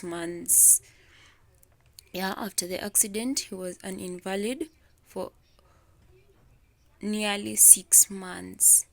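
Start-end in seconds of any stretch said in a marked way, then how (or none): 4.0-4.7 "invalid" stressed on its first syllable, IN. Shown as a demonstration. Teacher repeating the example for students, "invalid" stressed on IN. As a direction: put the weight on IN in "invalid". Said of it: "we're going to stress the first syllable".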